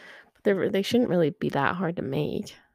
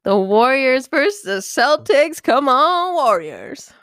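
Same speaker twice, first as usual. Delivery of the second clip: louder, higher fan cheer; rally the team from the couch; 5 semitones higher, 10 dB louder, slower than usual. Real, not acted. Fan hypes the Warriors to a friend, excited cheer.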